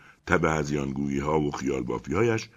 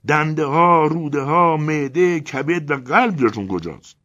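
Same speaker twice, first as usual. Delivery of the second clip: loud, higher angry outburst; angry interruption; 11 semitones higher, 8 dB louder than usual. A narrator's reading. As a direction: cut him off furiously. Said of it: "با عصبانیت حرفای او را قطع کردم".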